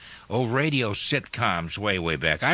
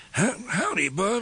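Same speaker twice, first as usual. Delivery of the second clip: New England Titus Moody; 8 semitones higher than usual. Retold or imitated. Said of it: "And he would say".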